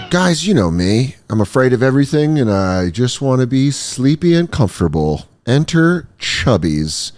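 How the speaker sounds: upbeat sponsor read, steady and clear. Acted. Host reads a shorts ad to viewers, upbeat.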